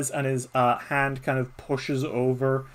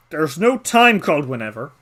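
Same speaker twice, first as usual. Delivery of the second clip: louder, bossy badger voice; gruff old badger; 4 dB louder than usual. Badger Nullig ordering the child around, bossy and loud. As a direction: lay down the plan like a grumpy badger.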